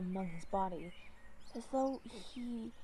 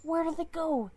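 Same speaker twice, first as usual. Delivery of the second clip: higher, louder panicked call; frantic shout; 7 semitones higher, 6 dB louder than usual. Acted. Leader screaming to Torn Claw about the missing kit. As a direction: shout it in alarm. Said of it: "he screamed".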